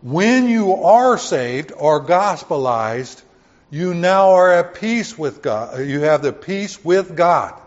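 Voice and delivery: slow, loud proclamation; preaching. Real, not acted. Pastor to church, slow loud preaching. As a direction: drive it home, slowly and loud.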